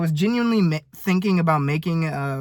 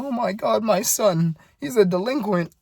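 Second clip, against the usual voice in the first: high, fretful mom voice, imitating her; mock a panicking mother; worried mother; 6 semitones higher than usual. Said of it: "you're gonna be a nervous wreck".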